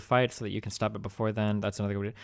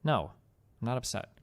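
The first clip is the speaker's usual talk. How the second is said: short, subdued denial; quiet, mildly sulky brush-off; sounding upset; 4 dB quieter than usual. Retold or imitated. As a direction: deny it with understated irritation. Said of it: "you kinda sound upset".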